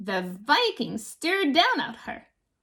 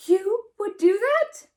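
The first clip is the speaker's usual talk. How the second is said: higher, changed voice of delight; hopeful troll voice; 8 semitones higher than usual. A narrator's reading. The troll answers Lily in a higher, hopeful voice. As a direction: brighten through tears. Troll smiles through tears.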